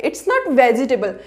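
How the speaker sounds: vegetable with all four syllables, ve-je-ta-ble; vegetable said fully as ve-ji-te-bal; wrong vegetable. Shown as a demonstration. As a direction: say vegetable the mispronounced way, every vowel sounded. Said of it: "वेजिटेबल wrong है".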